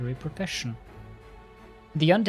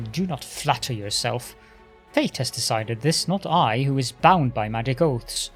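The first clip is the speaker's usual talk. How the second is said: arrogant lich voice. Acted. Lich tells his history.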